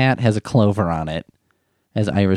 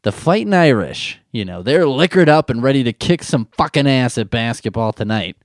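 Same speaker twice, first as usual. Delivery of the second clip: hammed-up sportscaster; 5 semitones higher than usual. Mocking ESPN hosts hyping the Irish team, booming announcer voice. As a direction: hype the game like a cable sports host. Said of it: "I like to see the E S P N guys be like".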